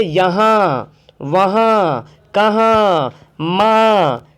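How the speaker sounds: यहाँ वहाँ कहाँ माँ with a nasal आँ, no clear न; slow, let each end through the nose. Shown as a demonstration. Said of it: "इस तरह बोलते हैं ना".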